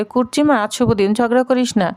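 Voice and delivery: lightly calm, settling the quarrel; mild calm elder's plea; calm, soothing. Acted. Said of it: "শান্ত সুরে বলে".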